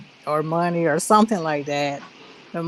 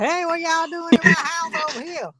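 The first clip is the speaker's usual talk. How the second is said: redneck white guy; 11 semitones higher than usual. Retold or imitated. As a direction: play a fake country homeowner, higher. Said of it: "pretend like he's some redneck white guy".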